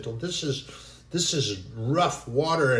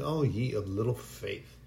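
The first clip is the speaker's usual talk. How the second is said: soft, lower, kindly chiding; gentle rebuke; 3 semitones lower, 6 dB quieter than usual. Acted. Jesus gently rebuking his frightened disciples. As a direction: scold them tenderly, like a patient teacher. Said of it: "gently rebuked them".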